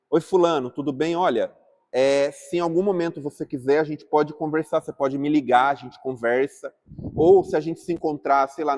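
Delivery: reach out kindly after a quarrel; friendly reconciling message. Shown as a demonstration. Reaching out to someone after a disagreement, friendly and open. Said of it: "opa, agora eu tô bem".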